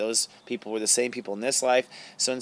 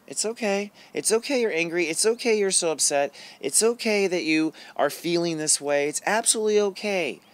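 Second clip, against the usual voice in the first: self-compassion; 6 semitones higher than usual. Shown as a demonstration. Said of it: "And that's the self-compassion".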